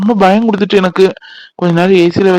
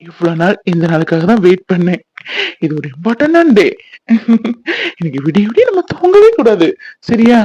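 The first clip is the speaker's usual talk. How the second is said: put-on husky voice. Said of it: "அஸ்கி வாய்ஸ்ல பேசினா".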